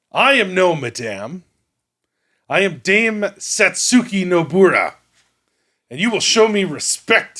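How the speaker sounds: proud, high-pitched woman knight voice.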